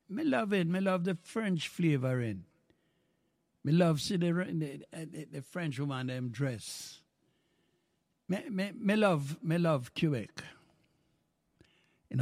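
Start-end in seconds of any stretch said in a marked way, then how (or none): 0.1-10.4 Jamaican patois, warm and excited, praising Quebec. Real, not acted. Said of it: "Let me talk like a Jamaican patois".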